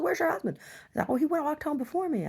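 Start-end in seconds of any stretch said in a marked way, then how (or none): 0.0-0.6 much higher, fussing; neighbor voice. Retold or imitated. Neighbor voiced, high put-on. 1.1-2.3 sheepish reply. Retold or imitated. Herself answering in high voice.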